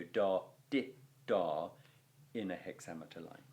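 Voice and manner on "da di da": sung out as long short long beats, da, di, da; da di da rhythm. Shown as a demonstration. Teacher chanting the rhythm for students, beat by beat. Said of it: "you never go".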